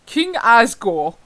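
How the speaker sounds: slow, loud, hammed-up king; King Asgore. Reader slipping into the wrong character, mock kingly voice. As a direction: announce yourself like a mock monarch, drawn out. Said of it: "I was like".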